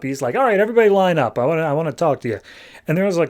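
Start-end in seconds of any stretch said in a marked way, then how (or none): 0.3-2.4 hurried, mildly exasperated call to order; fed up. Retold or imitated. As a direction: rattle it off, a touch fed up. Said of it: "So Will gets fed up".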